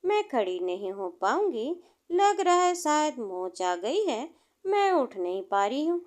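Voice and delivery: hurt foot, pushing the words out through pain; groaning in pain. Acted. Injured girl tells her friend she can't stand, mildly pained. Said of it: "दर्द से कराहते हुए बोली".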